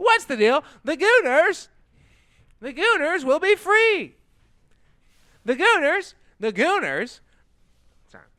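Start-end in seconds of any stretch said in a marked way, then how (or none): 0.0-7.2 very high standup-comic voice. Trying out a Jerry Seinfeld impression on a silly line: Jerry Seinfeld impression. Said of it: "inhabit Jerry".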